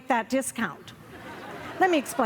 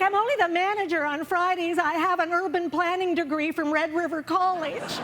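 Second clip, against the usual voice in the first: mock crying clerk; 5 semitones higher than usual. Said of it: "Well, then she starts crying".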